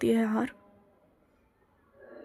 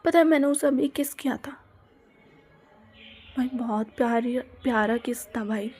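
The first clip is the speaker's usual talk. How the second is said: secret whispered confession. Retold or imitated. Girl whispering to friends that she kissed her crush. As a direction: breathe it out so nobody else hears.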